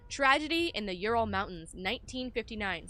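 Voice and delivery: measured, emphatic narration of a report; document read-aloud. Acted. Player reading the game's note to viewers, documentary narration.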